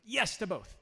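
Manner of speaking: a dry joke melting into laughter; laughing reply. Real, not acted. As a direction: say it dry, then crack up. Joking reply, then laughing.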